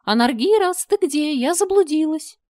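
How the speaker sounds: high, loud gentle call into the dark; gentle woman calling. Acted. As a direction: lure him in with a sweet voice. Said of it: "нежный женский голос, зовущий". (чудовище нежным женским голосом зовёт Анаргироса)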